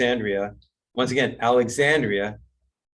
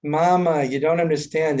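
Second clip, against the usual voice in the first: exasperated son; 4 semitones higher than usual. Acted. Joke, son protests to mother.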